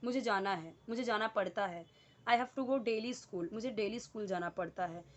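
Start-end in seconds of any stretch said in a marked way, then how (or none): 2.3-3.5 slow example sentence. Shown as a demonstration. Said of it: "जैसे कि हम बोलते हैं ना".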